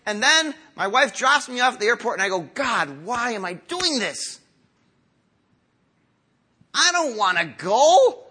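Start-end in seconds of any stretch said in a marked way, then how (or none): 2.4-4.4 mock whine. Pastor voices his reluctance at airport. 6.7-8.2 half-laughing, drawn-out mock complaint; laughing mock whine. Pastor mocks himself not wanting to leave.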